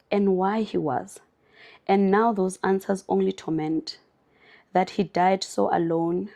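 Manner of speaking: reading a heartbreaking book passage to viewers, somber. Acted. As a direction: read it gently, heavy-hearted. Reads book excerpt aloud.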